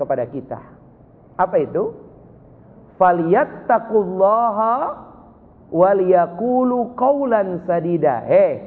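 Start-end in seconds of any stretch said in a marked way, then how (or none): 3.0-8.2 slow, chanted Arabic verse; Quran recitation. Real, not acted. Preacher reciting the verse to fathers, slow and chanted. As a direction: recite it with reverence.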